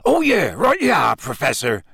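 eager startled compliance; hurried agreement. A narrator's reading. Hagrid jumping to obey Dumbledore, flustered.

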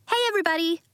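high, excited call. A narrator's reading. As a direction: call out to the room. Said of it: "Nori cried".

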